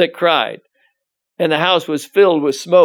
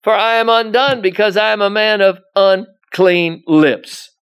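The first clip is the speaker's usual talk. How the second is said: lament; 3 semitones higher, 4 dB louder than usual. Retold or imitated. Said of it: "He says".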